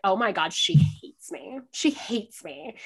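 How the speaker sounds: slow, drawn-out dread on each phrase; lightly acted sinking realization; mock dismay. Fan convinced her idol dislikes her, dismayed. Retold panic at idol's remark.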